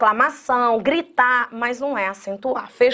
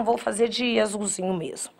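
whispered aside; 3 semitones lower, 7 dB quieter than usual. Real, not acted. Aside while picking a pen.

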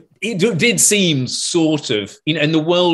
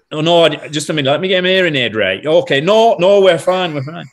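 imitated Lancashire sound man, louder; Lancashire accent; 3 semitones higher, 5 dB louder than usual. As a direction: put on a Lancashire accent in protest. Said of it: "talked in a sort of Lancashire accent".

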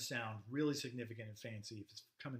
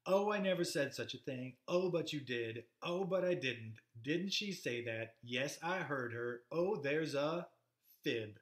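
lightly acted bickering, a little louder and lilting; remembered stall chatter; 4 dB louder than usual.

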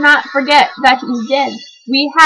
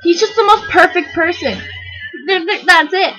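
gushing fan; 5 semitones higher, 3 dB louder than usual. Real, not acted. Gushing again.

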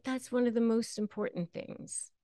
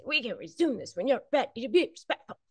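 fast and higher, with an edge of irritation; irritated; 5 semitones higher, faster than usual. Shown as a demonstration. How not to say the boundary line, impatient and fast. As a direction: rattle it off impatiently. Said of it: "You don't have to be like that".

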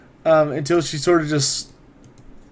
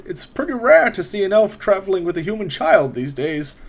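raised, unhurried scholarly wizard; 4 semitones higher than usual. Acted. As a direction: speak as a courteous old mage. GM voices the wizard Otto.

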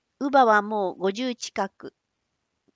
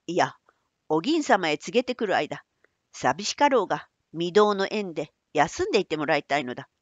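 put-on old man voice; 4 semitones lower than usual. Manbei explains.

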